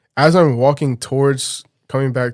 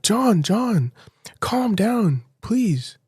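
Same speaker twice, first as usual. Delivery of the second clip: a voiceless, higher imitation of her plea; imitated whisper; 9 semitones higher, much slower than usual. Girlfriend on the phone calming him down, mock whisper. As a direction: mimic her hushed, higher calm-down plea.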